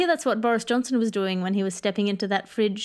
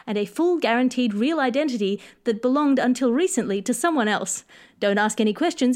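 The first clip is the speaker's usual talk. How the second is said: ad read. Acted. Reads a mock shady ad.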